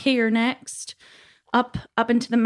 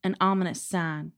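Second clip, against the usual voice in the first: epic fantasy narrator. Acted. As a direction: read it like an ancient epic poem. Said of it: "That was beautiful".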